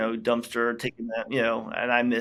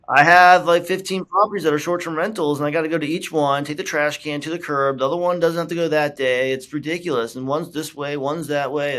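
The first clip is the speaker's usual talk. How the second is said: higher, louder, ranting client voice, a bit faster; exasperated client; 4 semitones higher, 6 dB louder than usual. Retold or imitated. Client complaining about hauling trash cans, exasperated rant. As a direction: vent like someone fed up with chores.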